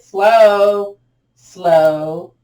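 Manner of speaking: loud, long-stretched single words; drawn-out cue. Real, not acted. Teacher slowing the arms going overhead, loud and drawn out. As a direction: stretch each word out to slow them down. Cueing slow overhead raise.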